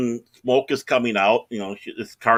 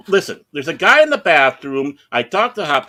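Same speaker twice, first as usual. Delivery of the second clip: raised, urgent phone demand; insistent; 4 semitones higher, 5 dB louder than usual. Retold or imitated. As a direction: press the operator to listen. Insisting to emergency operator, retold.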